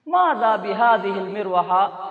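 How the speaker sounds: slow model repeat. Shown as a demonstration. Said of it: "model repeat".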